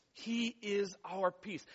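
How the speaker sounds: he is our peace, slow, with the weight on he; stress on he. Shown as a demonstration. Preacher stressing he to the congregation. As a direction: lean hard on he, then let it settle. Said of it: "It's not that there is peace available".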